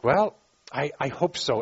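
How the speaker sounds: hedging, unsure human promise; hesitant promise. Acted. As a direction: hedge it with a small stumble. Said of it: "when we promise, we say things like".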